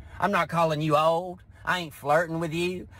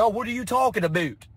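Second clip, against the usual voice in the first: offended guy; 5 semitones higher than usual. Retold or imitated. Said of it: "He's like".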